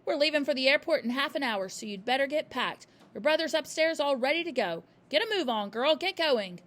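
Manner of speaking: loud impatient orders; bossy father. A narrator's reading.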